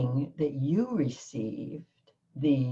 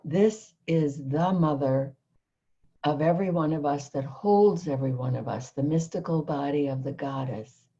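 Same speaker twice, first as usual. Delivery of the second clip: measured, solemn recitation of a prayer; prayer reading; 2 semitones lower than usual. Acted. Guest reads her channeled prayer aloud to the host, solemn recitation. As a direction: read it as sacred verse, holding back tears. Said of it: "I'm gonna try to read it without crying".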